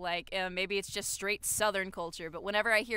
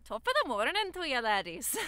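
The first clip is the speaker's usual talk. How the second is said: quick, amateur Irish lilt; attempted Irish accent. Shown as a demonstration. Echoing the co-host's greeting, attempted Irish accent. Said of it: "I'm gonna try to do an".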